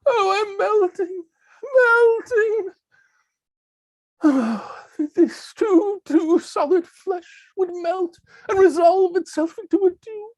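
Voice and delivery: high, slow, hammy dying wail; milk the melting death for all it's worth; overacted death scene. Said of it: "acting out a dramatic death scene".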